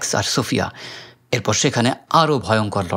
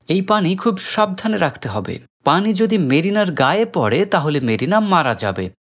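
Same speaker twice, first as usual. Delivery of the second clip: put-on children's voices; 8 semitones higher than usual. Children warn David.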